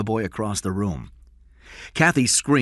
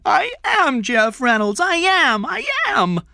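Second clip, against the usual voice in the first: put-on higher, louder desperate boy, near tears; crying; 8 dB louder than usual. A narrator's reading. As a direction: sob it out, rising each time.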